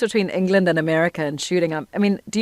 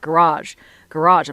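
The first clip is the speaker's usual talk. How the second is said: put-on American accent; 3 semitones lower, slower than usual. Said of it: "She's like".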